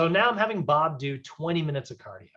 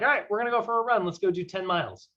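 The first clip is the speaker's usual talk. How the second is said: overeager coach; 4 semitones higher, faster than usual. Retold or imitated. Coach pushing a five-year-old.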